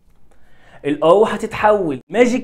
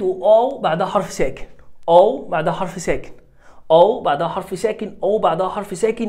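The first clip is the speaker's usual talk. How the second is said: أو stressed each time it repeats. Shown as a demonstration. Teacher drilling the rule, stressing أو. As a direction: drill the phrase hitting أو. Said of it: "أو كلمة مقطع واحد".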